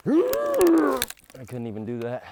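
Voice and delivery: high, slow, laughing at himself; self-mocking laugh. Real, not acted. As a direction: giggle through it at yourself. Laughs at his failed swing.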